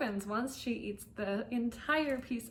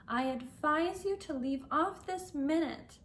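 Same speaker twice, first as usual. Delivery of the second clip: sharply; 6 semitones higher than usual. Acted. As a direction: snap an order at yourself, storybook style. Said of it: "said Alice to herself rather sharply".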